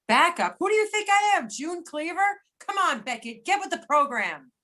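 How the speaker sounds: indignant. Acted. Partner scoffs at backup role.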